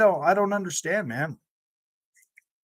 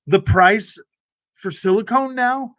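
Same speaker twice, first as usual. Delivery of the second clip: mock disbelief; 5 semitones higher, 4 dB louder than usual. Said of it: "I was like".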